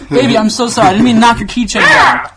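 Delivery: high, loud, laughing mock pleading; hammed-up groveling to an angry girlfriend; begging boyfriend. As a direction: overplay a desperate guy begging. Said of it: "you're like".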